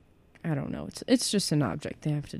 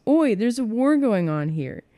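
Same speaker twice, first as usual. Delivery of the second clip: put-on higher call in own accent; mildly raised voice, no put-on accent; 6 semitones higher, 4 dB louder than usual. A narrator's reading. Harry calls out to kissing friends, raised voice. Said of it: "He raised his voice".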